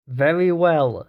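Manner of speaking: slow, forced through clenched teeth; through gritted teeth. Acted. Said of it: "said Foster through gritted teeth".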